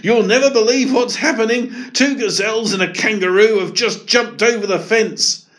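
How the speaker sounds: high, loud breathless alarm; keeper shouting. Acted. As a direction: burst in with the news. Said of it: "keeper dashed in shouting".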